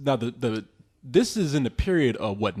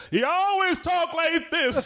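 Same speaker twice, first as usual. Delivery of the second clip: put-on voice; 13 semitones higher, slower than usual. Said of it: "It's like".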